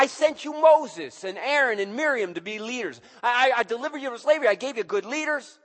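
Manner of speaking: loud, high, aggrieved list of good deeds; indignant God. Acted. God reminding his ungrateful people, loud and aggrieved. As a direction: rattle off everything you did for them.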